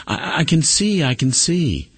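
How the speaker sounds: high, thrilled repeat of the discovery; retold joyful cry. Preacher voicing the wife's second joyful cry, high and thrilled. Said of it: "again, she says".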